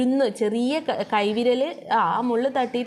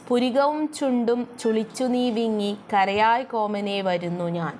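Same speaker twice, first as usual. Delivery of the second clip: slow, measured reading of the verse; slow lilting poem recital; poem recitation. Shown as a demonstration. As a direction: chant the line slowly like a recited poem.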